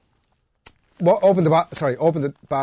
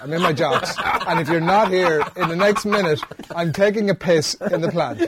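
insistent, raised mock threat; retold exasperated ultimatum; 4 semitones higher than usual. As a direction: replay a fed-up threat, amused.

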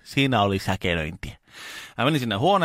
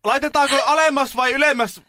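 slow, very high bellowed questions; imitated shout; 6 dB louder, slower than usual. Carer questioning a deaf old patient, shouting slowly. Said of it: "meni vähän lähemmäs ja huusi".

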